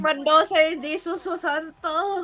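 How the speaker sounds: put-on loud, laughing Southeast Asian accent on the names. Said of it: "My most Southeast Asian accent ever".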